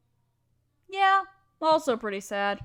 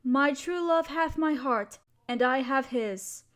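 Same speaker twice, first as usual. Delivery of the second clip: poem recitation. Acted. Reading a favourite sonnet aloud to a partner, tender. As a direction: recite it gently, like a keepsake.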